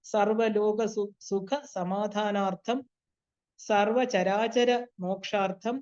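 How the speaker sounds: measured, phrase-by-phrase ritual recitation; solemn prayer formula with pauses between phrases; Sanskrit sankalpa recitation. Real, not acted. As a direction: recite slowly for others to follow silently. Leads recited Sanskrit resolve.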